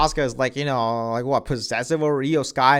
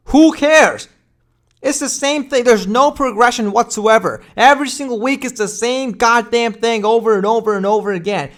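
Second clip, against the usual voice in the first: exasperated rant; 5 semitones higher than usual. Real, not acted. Ranting about booking.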